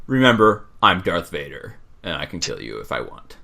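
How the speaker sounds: lightly voiced menace, sinking in pitch as it goes; Darth Vader. Podcaster imitates the villain warning someone he can kill, understated menace. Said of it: "That's my Darth Vader voice".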